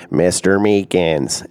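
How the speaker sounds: low, slow, drawn-out phone greeting; Robin the Prophet. Retold or imitated. Prophet greeting the pastor on the phone, deep and slow. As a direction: deepen the voice and stretch each word. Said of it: "his voice is like this".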